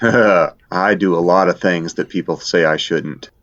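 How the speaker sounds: low, menacing reply after a chuckle; acted menace. Player intimidating the captive, low understated menace. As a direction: threaten with dark amusement. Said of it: "very menacing".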